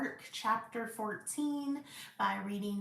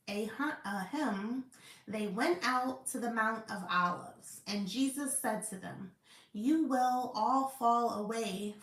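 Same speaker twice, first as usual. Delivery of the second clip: measured, emphatic Bible read-aloud; scripture reading. Acted. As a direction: read the verses out with firm stresses.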